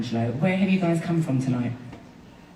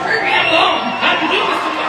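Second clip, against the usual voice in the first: laughing protest; 10 semitones higher, 5 dB louder, faster than usual. Real, not acted. Mock protest at audience, laughing.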